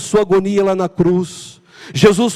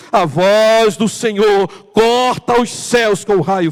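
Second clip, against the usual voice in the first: majestic psalm reading; slower than usual. Shown as a demonstration.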